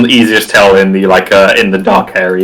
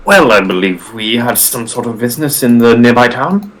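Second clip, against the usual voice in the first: lightly voiced haughty villain; a hint of a stagey villain; sneering panto villain. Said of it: "that's not the voice I meant to do".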